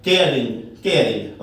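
केयरिंग with r clearly sounded; sounded r demo. Shown as a demonstration. Teacher shows the r sounded in केयरिंग. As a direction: roll into the r in केयरिंग. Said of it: "आर जो है pronounce हो गया".

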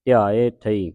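ਧਿਆਏ ਥਈ with ਥਈ as its own word; ਥਈ set apart after ਧਿਆਏ; separate ending. Shown as a demonstration. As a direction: say ਧਿਆਏ, then a distinct ਥਈ. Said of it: "ਸੰਬੰਧਕ ਲਾ ਕੇ ਉਚਾਰਨ".

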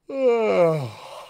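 sighing yawn with the tongue tip kept forward; a controlled professional yawn. Shown as a demonstration. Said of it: "and we go this".

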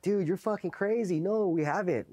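high-pitched mock protest; retold indignant denial. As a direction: act out brushing off an accusation. He denies it to the MPs.

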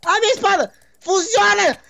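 cartoon samurai panic. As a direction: wail about a broken sword.

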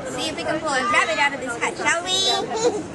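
bright showman clown voice; kids party magician. Pretend. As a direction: play the children's party magician.

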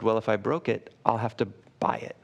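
a soft, unruffled reply; calm, gentle offer to pay; quiet and gentle. Retold or imitated. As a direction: answer softly, with no defensiveness at all. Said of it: "he said it quietly and he said it gently".

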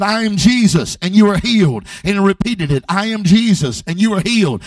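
loud, firm words of Jesus; proclamation retold. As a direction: announce it firmly, twice.

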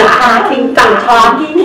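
mock Minnesota vowels on 'talking', slow and loud; Minnesota accent. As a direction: stretch it out like a Minnesotan. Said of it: "we talk kind of weird too".

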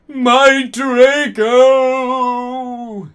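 loud, high anguished wail; moaning.

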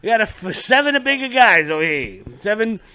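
hammed-up Italian accent; old Italian lady. Italian lady telling Giuseppe about the guests, in a mock accent. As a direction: play an Italian lady relaying an order. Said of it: "little old Italian lady's like".

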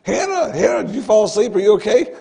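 father calling his daughter's name in the car, anxious. Retold or imitated. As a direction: urgently try to rouse the child.

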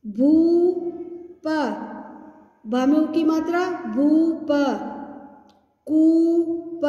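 syllable by syllable, then blended; sounding out words. Shown as a demonstration. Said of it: "लंबा खींचना है".

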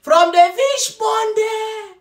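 lightly hammed-up robotic reporter; mocking newscaster imitation. Mocking a man reporting from the swamp, mock newscaster. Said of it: "the way the guy is talking in".

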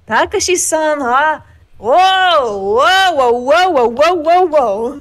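put-on high, loud anime girl squeals. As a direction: gush like an excited anime girl. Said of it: "super fucking anime girl voice".

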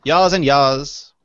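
a lightly done South African "Yas and yas", drawn out very slowly; South African accent. Retold or imitated. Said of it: "Very different kind of English that people speak there".

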